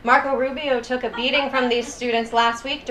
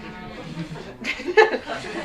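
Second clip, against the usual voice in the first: laugh; 2 semitones lower, 5 dB quieter than usual. Real, not acted. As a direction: chuckle after a risky joke. Laughs after own joke.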